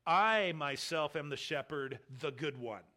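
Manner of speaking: "I" and "myself" stressed, "the good one" falling; emphatic literal reading. Shown as a demonstration. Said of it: "and more literally".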